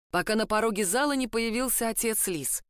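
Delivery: ordinary delivery, nothing marked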